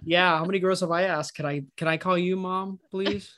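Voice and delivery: mock sad helpless plea; lightly voiced helpless whimper; playing helpless. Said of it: "He has a sad, like, helpless voice".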